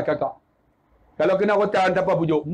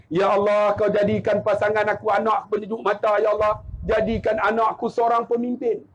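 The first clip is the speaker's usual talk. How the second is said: measured recited supplication; father's prayer; 4 semitones lower than usual. Retold or imitated. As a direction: recite it as a father praying for his child. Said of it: "Apa doa dia?". (bacaan doa seorang ayah)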